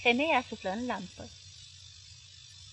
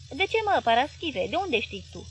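sweet sincere voice; 4 semitones higher, 4 dB louder than usual. Acted. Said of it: "cu glasul ei dulceag, dar acum sincer".

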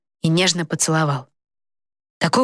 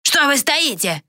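much higher, angry snap at the guards; angry demand; 9 semitones higher, slower than usual. A narrator's reading. King furiously ordering idle guards to attack. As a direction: whip them into action.

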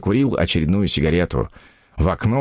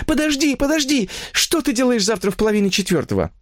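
far higher, frantic woman's voice; desperate woman; 14 semitones higher than usual. Acted. Mistress calling after her lover who hung up, frantic. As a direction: cry out for him to wait. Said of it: "изо всех сил стучать ладонью по трубке".

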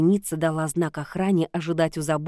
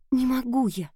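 higher, pleading moan; moaning princess; 8 semitones higher than usual. A narrator's reading. Princess confessing her fear to the witch, mild moan. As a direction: plead it, a touch of a groan. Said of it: "простонала Огнеслава".

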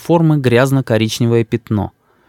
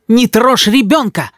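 protective shout; 9 semitones higher, slower than usual. A narrator's reading. Grandmother shields the child.

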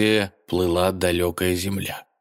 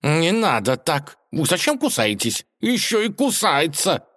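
cat scolding the mouse who bites him; flustered cat; 10 semitones higher than usual. A narrator's reading. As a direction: protest like a bitten cat. Cat fights biting mouse.

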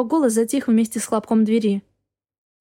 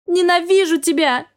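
higher, tearful cry with a touch of a sob; sobbing hatred; 6 semitones higher than usual. Acted. Wife sobbing hatred at her husband in the snow. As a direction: break on the hate, near tears. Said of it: "всхлипнула я".

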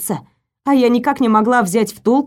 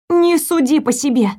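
indignant; 5 semitones higher than usual. Acted. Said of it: "возмутилась я".

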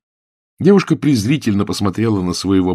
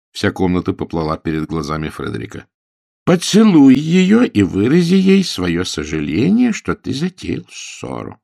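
stern governess; 6 semitones higher, 4 dB louder than usual. A narrator's reading. Governess gives orders.

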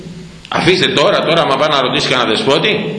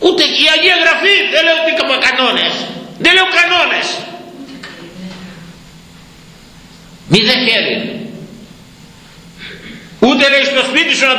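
fiery preaching; 11 semitones higher than usual. Real, not acted. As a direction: preach with mounting outrage. Preaching at full force. (φλογερό κήρυγμα με ψηλή, δυνατή φωνή)

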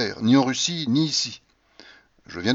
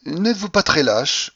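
slow, higher challenging question; sudden challenge; 6 semitones higher, 4 dB louder than usual. A narrator's reading. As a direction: throw down the accusation slowly. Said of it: "reprit-elle tout à coup".

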